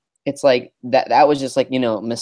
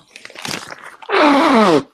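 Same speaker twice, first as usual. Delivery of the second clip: nose blow and throat clear; 13 semitones higher than usual. Real, not acted. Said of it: "Sorry, I'm blowing my nose right now".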